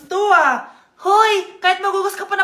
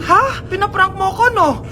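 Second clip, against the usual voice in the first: scared whimper; 2 semitones higher, 3 dB louder, slower than usual. Acted. Mother scared, thinks it's a prank.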